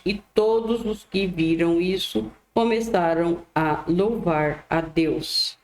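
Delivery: measured Bible reading with deliberate phrasing; scripture reading. A narrator's reading. Preacher reads the Gospel to listeners, measured read-aloud. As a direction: read the passage aloud slowly and clearly, phrase by phrase.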